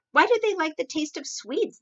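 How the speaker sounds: high, loud, bewildered question from the king; an indignant king who can't believe it; baffled king. Acted.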